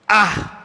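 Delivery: displeased huff. Shown as a demonstration. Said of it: "Ungkapan ketidaksenangan".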